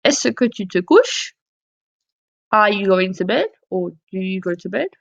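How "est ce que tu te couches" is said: "Est-ce que tu te couches?" with the voice rising on couches; question with est-ce que. Shown as a demonstration. Teacher models the est-ce que question, rising. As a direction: ask it as a question, lifting at the end. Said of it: "add est-ce que to the beginning".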